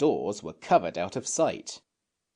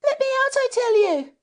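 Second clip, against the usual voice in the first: high, louder, desperate plea; crying out; 6 dB louder than usual. Acted. Jane begs Robert to stop, crying out. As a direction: beg to be let out. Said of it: "cried Jane".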